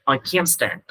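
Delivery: "can't" stressed with its t swallowed; full vowel on "can't", no audible t; silent t, strong can't. Shown as a demonstration. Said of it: "các bạn sẽ nghe được chữ can".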